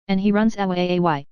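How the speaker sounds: "away" drawn out long and slow at the end; lengthened last syllable. A narrator's reading. Wife draws out "away" slowly at the runaway captain. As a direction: stretch the word "away" out slowly, mocking. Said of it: "with a lengthening out of the last syllable".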